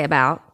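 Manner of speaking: "about" with an open American "ow"; "about" flattened toward "a-bowt", no Canadian rounding; Americanized vowel. Shown as a demonstration. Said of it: "they would put A B A L T".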